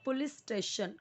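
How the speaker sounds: पुलिस with a short u in the first syllable; correct pronunciation. Shown as a demonstration. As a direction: say पुलिस as "pu-lees". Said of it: "अगर आप सोचो कि ये पो होगा".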